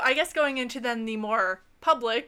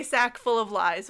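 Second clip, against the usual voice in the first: Italian accent. Shown as a demonstration. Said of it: "with an Italian accent".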